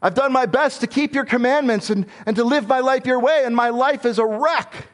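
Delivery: high, pleading complaint to God; Job crying out. Acted. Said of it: "he cries out to God".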